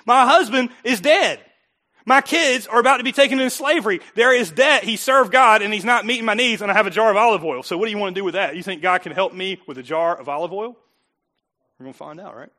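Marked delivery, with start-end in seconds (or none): 0.1-7.6 acting out a desperate widow, louder and pleading. Widow pleading with the prophet about her debt, loud and desperate. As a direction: cry it out like a widow with nothing left.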